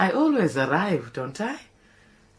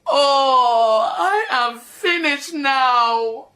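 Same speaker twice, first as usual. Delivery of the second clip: melodramatic despair. Acted. Despairing lament.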